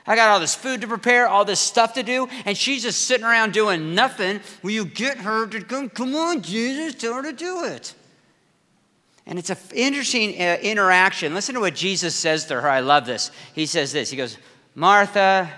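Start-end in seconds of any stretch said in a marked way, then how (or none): 0.1-7.9 higher, pleading complaint, rising to a squeal; whiny Martha. Acted. Busy sister begging Jesus to make Mary help, high whiny plea. 14.7-15.5 louder call of her name. Acted. Jesus calling to busy Martha, a firmer louder call.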